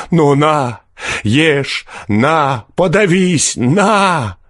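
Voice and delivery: high-pitched furious taunting; fierce outburst. A narrator's reading. Peasant suddenly straightens and turns on forester, fierce outburst. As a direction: throw each word at him in rage. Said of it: "подхватил мужик свирепым голосом".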